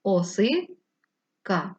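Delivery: "Осика" very slow, split for the line break; hyphenation demo. Shown as a demonstration. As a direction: draw out "Осика" to show the break. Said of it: "Переносимо тільки так".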